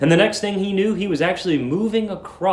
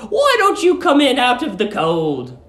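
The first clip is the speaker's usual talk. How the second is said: sweet landlady; 9 semitones higher, 3 dB louder than usual. Acted. Landlady luring the young lodger, high sugary coo. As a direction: coo at him like a doting landlady.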